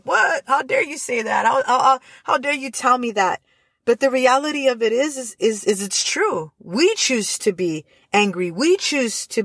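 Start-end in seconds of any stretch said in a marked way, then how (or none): 0.0-3.4 high, outraged "What?" then a sputtering "how dare you"; mock indignation. A listener offended by the pastor's wife, mock outrage. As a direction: play the offended listener hearing a hard truth.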